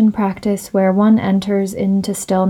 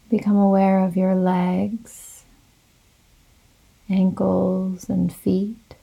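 slow, calm yoga nidra guidance with long pauses; guided meditation; slower than usual. Real, not acted. Leads a guided relaxation meditation.

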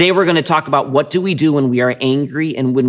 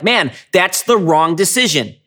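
mock complaining; 5 semitones higher than usual. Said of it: "And we're like".

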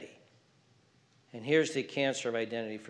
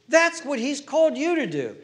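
higher, louder with a laugh; preached repeat; 11 semitones higher, 6 dB louder than usual. Real, not acted. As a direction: hammer it home with joy. Repeats line, second preached.

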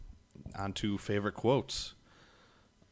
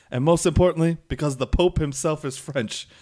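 mock boastful taunt; 7 semitones higher, 6 dB louder than usual. Last French squire's taunt, quoted.

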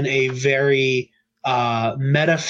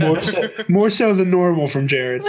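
laughing; 5 semitones higher than usual. Real, not acted. Teasing laugh.

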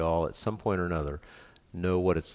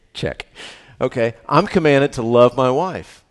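dutiful reply; 5 semitones higher, 11 dB louder than usual. Retold or imitated. Pastor voicing his own reply.

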